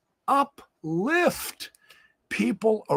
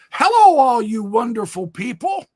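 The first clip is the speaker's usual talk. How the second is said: cheery greeting; 5 semitones higher, 6 dB louder than usual. Retold or imitated. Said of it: "I went in there and said".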